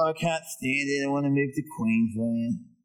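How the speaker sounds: low mock whinge; whining complainer. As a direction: imitate a weary local moaner. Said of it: "people with that sort of voice".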